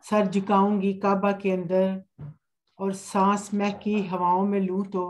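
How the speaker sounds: unhurried, measured verse with pauses; poetry recitation. Acted. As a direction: lay each line out gently for the audience. Recites her hamd at a mushaira.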